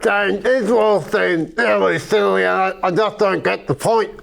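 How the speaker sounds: talking with tongue held; words slurred by a held tongue; holding own tongue. Acted. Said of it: "say everything while holding your tongue".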